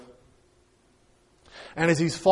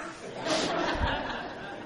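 soft laugh; 10 semitones higher, 10 dB quieter than usual. Real, not acted. Laughs at own joke.

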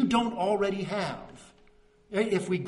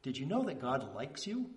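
soft pointed question; 5 semitones lower, 8 dB quieter than usual. Retold or imitated. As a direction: let "likes" land gently after a pause. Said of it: "then he paused and he looked and he said".

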